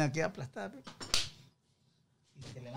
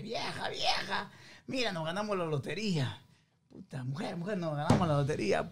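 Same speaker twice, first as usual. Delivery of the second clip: excited whisper; 3 semitones higher, 3 dB quieter than usual. Acted. Husband tells wife they won.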